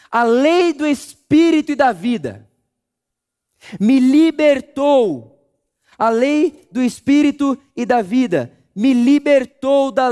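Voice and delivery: full-force preaching. Acted. Preacher driving home Paul's words to the church, at full force. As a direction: preach it big to the congregation.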